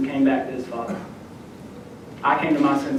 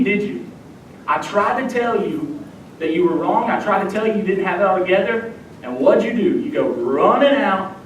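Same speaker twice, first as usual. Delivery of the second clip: higher-pitched, exasperated I-told-you-so lecture; imagined scolding father; 4 semitones higher than usual. Acted. Father to returning runaway son, scolding. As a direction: scold a wayward son, leaning hard on the key words. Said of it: "The son expects his father to act this way".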